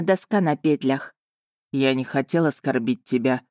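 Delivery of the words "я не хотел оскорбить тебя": forced out. Acted. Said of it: "выдавил Эйден".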